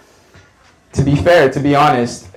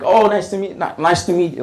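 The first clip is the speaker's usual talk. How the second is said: higher-pitched mock Arab accent; imitated Arab accent; 6 semitones higher than usual. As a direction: greet eagerly, imitating her Arab accent. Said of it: "like, in her accent".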